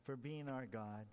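measured, reverent congregational prayer. Acted. Opens the study in prayer.

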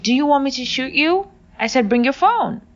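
high, loud threat; threatening. Retold or imitated. Gunman threatening the girl, loud menacing order. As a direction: menace her into obeying.

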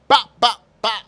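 loud mock gunshots, bop bop bop; gunshot sounds. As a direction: punch out each bop like a shot. Imitating gunshots.

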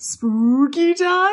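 slow, high-rising vampire query; groggy vampire. Acted. Vampire wife asks husband about the podcast, slow high creature voice.

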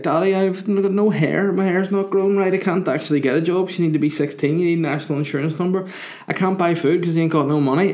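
high-pitched imitation of a little girl; toddler voice. Imagined baby daughter pleading with her dad, high childish voice. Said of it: "she'd be like".

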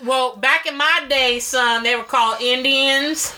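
put-on a grumpy old hick scolding son. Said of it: "I knew the hick was in there".

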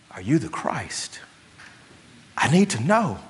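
a pleading, urgent John the Baptist begging for certainty; desperate John the Baptist. Retold or imitated. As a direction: beg for an answer from a cell.

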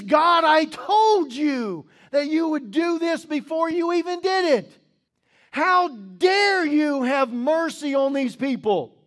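mock Jonah hurling his complaint upward; angry Jonah. Jonah complaining to God about Nineveh, loud and angry. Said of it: "which means that he's loud, which means that he's angry".

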